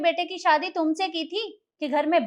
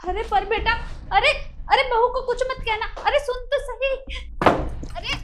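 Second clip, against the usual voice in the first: calling after him; 8 semitones higher than usual. Acted. Mother calls after angry son.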